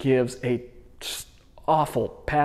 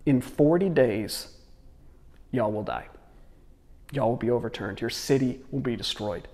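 half-hearted, low and trailing softer; phoning it in; 3 semitones lower, 3 dB quieter than usual. Acted. Jonah giving Nineveh his five-word message, phoning it in. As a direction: deliver the warning with minimal effort. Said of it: "he really phones it in".

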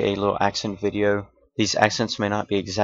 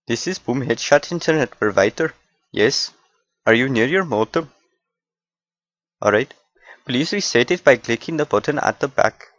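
put-on polite Indian call-centre accent; a tech support agent in an Indian accent; 2 semitones higher than usual. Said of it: "random accent skits".

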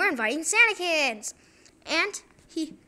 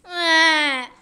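mock cry; 7 dB louder than usual. Fired guard cries out.

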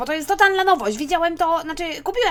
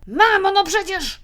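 exasperated; 3 semitones higher, 5 dB louder, slower than usual. Acted. Son scolds interrupting mother.

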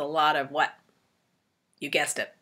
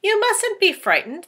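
kindly ladybug; 12 semitones higher, 5 dB louder than usual. Acted. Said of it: "the ladybug said kindly".

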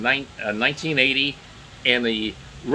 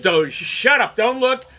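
mock scolding media; 5 semitones higher than usual. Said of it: "the media would be opposed to it".

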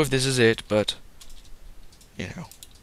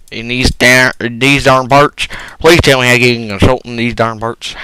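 loud, hammed-up fake British accent; a clumsy mock British plea; bad British accent; 11 dB louder, faster than usual. Vlogger asking viewers for a consultant, in a hammed-up fake British accent. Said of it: "now I'm doing a very bad British accent".

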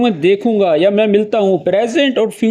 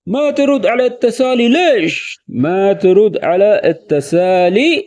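mildly annoyed question; slower than usual. Shown as a demonstration. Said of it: "تھوڑا غصے میں ... سوالیہ انداز میں".

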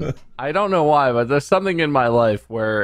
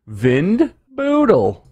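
Windbeutel drawn out slowly, higher; slow German word; 9 semitones higher, much slower than usual. Pretend. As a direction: stretch out Windbeutel like a German lesson. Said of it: "our accents are very convincing".

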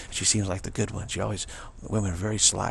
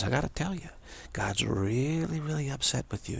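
mock grave warning; 5 semitones higher than usual. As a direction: break bad news, stretching out "really". Goddess warns of God's anger.

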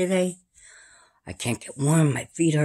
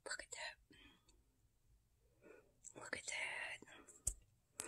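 awed whisper; 29 dB quieter, much slower than usual. Real, not acted. Whispered wonder.

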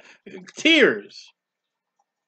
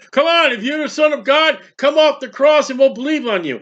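higher, taunting challenge from a priest; mocking priest; 5 semitones higher than usual. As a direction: dare him to come down. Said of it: "And that was the priest".

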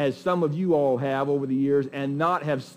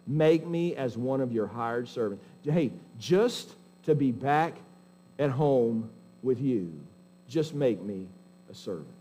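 low, slowing plea with pauses, fading softer; humbled, broken; 5 semitones lower, 5 dB quieter than usual. Acted. Prodigal son begging his father to take him back, humbly pleading. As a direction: plead gently as the contrite son, letting it die away. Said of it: "That's a heart of brokenness".

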